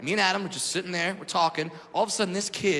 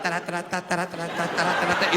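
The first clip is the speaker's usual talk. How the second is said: imitated festive rhythm; faster than usual. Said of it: "I thought it was all like".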